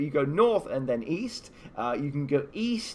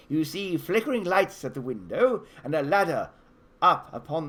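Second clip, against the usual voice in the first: spooky fairytale scene setting; game master's scene setting. A narrator's reading. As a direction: paint the scene for the players.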